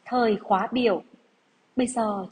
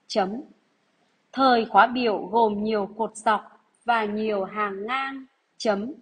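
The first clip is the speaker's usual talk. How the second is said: dictation reading. Acted. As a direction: read each phrase out for pupils to write. Teacher rereads whole dictation.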